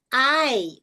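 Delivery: "ai" stretched, a gliding into i; demonstrated letter-name "ai"; long I, two sounds. Shown as a demonstration. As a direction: say "ai" as a clear diphthong. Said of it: "dois sons de novo".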